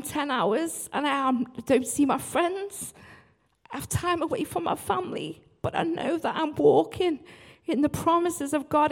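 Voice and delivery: holding back tears while speaking of time away from family; getting emotional. Real, not acted. Worship leader sharing what her travel costs, near tears. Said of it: "I'm gonna get emotional".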